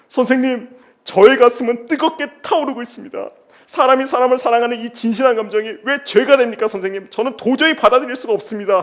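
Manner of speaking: high, loud, hammed-up anguished plea; wailing stalker student. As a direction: ham up a lovesick boy's wail. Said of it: "하고 울부짖어요".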